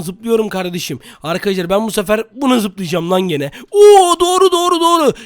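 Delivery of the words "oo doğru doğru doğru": loud, high-pitched whoop of success; excited relief. Real, not acted. Player landing on the right block, excited relief. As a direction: burst out high and thrilled.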